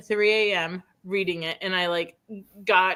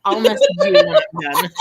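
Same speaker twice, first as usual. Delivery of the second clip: excited promise; 8 dB louder than usual. Real, not acted.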